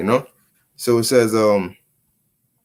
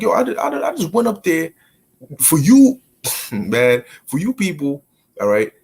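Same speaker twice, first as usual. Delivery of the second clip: mock exasperated Moses; 2 semitones higher than usual. Moses retold complaining.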